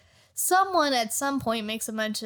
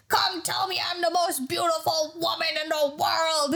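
mock vain villainess; 5 semitones higher than usual. Alvida demands flattery from Colby.

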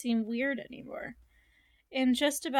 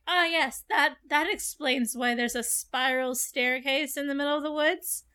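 sarcastic agreement; 2 semitones higher than usual. Retold or imitated. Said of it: "and be like".

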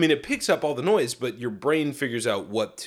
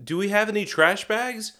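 imitated partner's call; 8 semitones higher than usual. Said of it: "You say".

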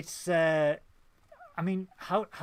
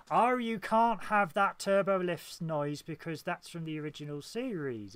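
mock gatekeeper; 4 semitones higher, 4 dB louder than usual. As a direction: imitate a nitpicking fan, louder at first. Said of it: "people think of gatekeepers and negative".

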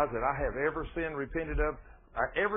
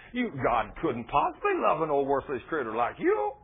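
accusing devil. Acted. Devil dragging a believer back down, accusing. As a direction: play the devil nagging through a list of faults. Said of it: "pulls you back down there and says".

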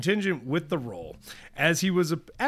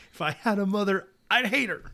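higher-pitched mock child's grudge; quoted spiteful child; 6 semitones higher, faster than usual. Retelling young Sterling disowning his absent mother, imitated child's resentment. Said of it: "said he hated her".

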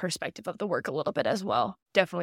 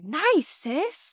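breezy, much higher quip imitating a brother; lighthearted; 9 semitones higher than usual. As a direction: toss it off playfully to lift the mood. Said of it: "he tried to play it, like, lightheartedly".

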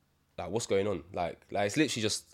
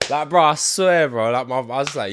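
laughing; 7 semitones higher, 12 dB louder than usual. Real, not acted. Still laughing, loud and slow.

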